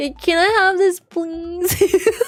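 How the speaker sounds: put-on high, cutesy, babyish baby talk. Showing how the speaker baby talks with their partner: baby talk. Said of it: "I baby talk with him".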